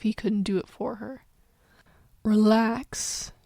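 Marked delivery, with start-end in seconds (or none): 2.2-3.3 soothing. Acted. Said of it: "communicating soul to soul".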